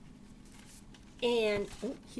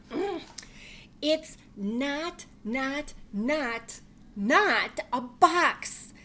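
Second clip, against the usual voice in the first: excited bunny; 3 semitones higher, 6 dB louder than usual. Acted. Bunny lists imagined things.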